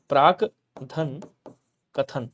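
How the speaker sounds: प्राकधन stretched out very slowly; very slow demo. Shown as a demonstration. Teacher drawing out प्राकधन very slowly for students. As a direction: draw out प्राकधन at a crawl.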